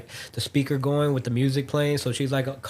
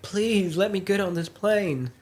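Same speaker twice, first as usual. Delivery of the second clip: mock crying plea; 6 semitones higher, slower than usual. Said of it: "the lady starts crying at this point".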